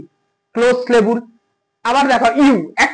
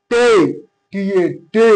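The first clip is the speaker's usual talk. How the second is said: টে pronounced firmly on its own, then spelled T A; stressed syllable; 4 semitones lower than usual. Shown as a demonstration. Teacher repeating for students where table is stressed, firm টে. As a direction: put force on each isolated টে. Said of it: "উচ্চারণটা কিন্তু জোর দিয়ে খাটাতে হচ্ছে".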